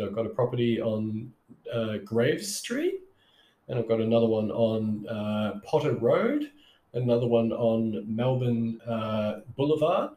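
each street name lifted up like a question; nervous, unsure inflection. Retold or imitated. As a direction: sound hesitant and unsure on the sales call. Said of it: "I wasn't saying it confidently".

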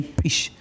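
whispered pish snare sound; beatbox snare pish. Shown as a demonstration. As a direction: hiss out a short pish. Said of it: "Ah, pish".

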